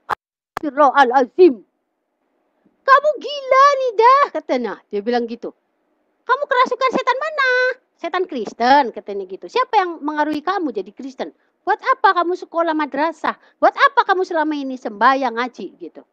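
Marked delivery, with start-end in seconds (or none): 0.1-4.2 high, loud imitation of a horrified mother; shocked mock outcry. Mother hears daughter wants baptism, horrified retold outcry. 6.3-8.9 high, fast accusing question, imitated; outraged retold scolding. Mother accuses converting daughter, outraged mock scolding. 9.5-15.7 higher-pitched berating, imitated; retold indignant scolding. Mother questions daughter's religious schooling, indignant retold scolding.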